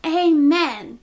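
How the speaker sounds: Johnny's loud, high yelled amen; sudden high-pitched holler; mock yell. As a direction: call it out loud over a funeral. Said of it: "Johnny yells out".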